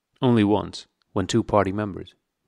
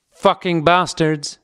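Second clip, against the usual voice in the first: slow, high furious yell; 9 semitones higher, 6 dB louder, much slower than usual. A narrator's reading. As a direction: bellow it out at full force. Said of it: "with a yell of".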